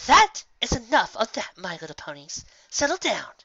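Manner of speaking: teacher calling class to order, lightly harsh; hint of harshness. Teacher settling the unruly class, a hint of harshness. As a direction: keep it sweet but let frustration peek. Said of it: "barest hint of frustrated harshness".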